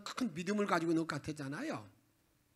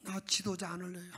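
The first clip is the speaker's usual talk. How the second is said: weary Moses. Retold or imitated. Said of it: "너무너무 답답해가지고 하나님께 이렇게 기도합니다".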